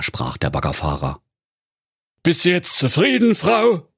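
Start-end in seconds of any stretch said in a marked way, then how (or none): 2.2-3.9 high, put-on voice of a grumbling husband; henpecked husband. A narrator's reading. Digger driver complaining to his wife, high grumbling husband voice. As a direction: grumble at the lazy wife in a raised voice.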